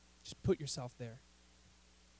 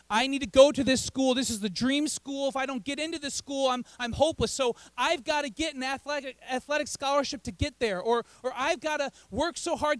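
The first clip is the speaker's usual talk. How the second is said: slightly raised, piling up worries; mildly frantic; 3 semitones higher than usual. Acted. Preacher voices a student desperate to get into dream school, mildly frantic. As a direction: act a touch of mounting student panic.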